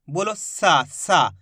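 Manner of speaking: सा with a dental s and long aa. Shown as a demonstration. Teacher has learners say the dental letter, demonstrated sa. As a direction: model सा as a clean hissed s syllable. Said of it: "इस तरीके से".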